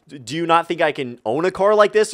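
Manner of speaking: mildly miffed, retold challenge; a little condescending. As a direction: question them with a touch of condescension. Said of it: "a little bit condescending".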